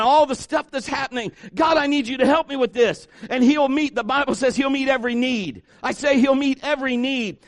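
high, driving sermon delivery; impassioned preaching. Real, not acted. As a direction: press each sentence home to the congregation. Preaches building list of promises.

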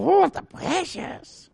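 high, slow, creepy creature croon; Smeagol voice. Retold or imitated. Pastor imitating Smeagol to show Judas's greed, high, slow croon. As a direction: coo over the treasure like Gollum. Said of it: "like Smeagol".

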